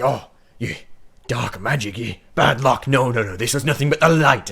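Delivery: a touch of indignant priest; scoffing cleric. Acted. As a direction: wave away the superstition loudly. Cleric dismissing dark magic superstition.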